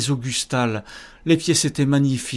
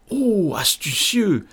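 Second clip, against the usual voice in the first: admiring; 5 semitones higher than usual. Acted. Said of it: "fit Antoine admiratif".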